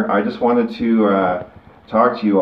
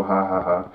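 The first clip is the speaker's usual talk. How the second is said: spoken, deadpan ha-ha-ha; dry mock laugh; 5 dB quieter than usual. Podcaster noting his show's comical side, dry mock laugh.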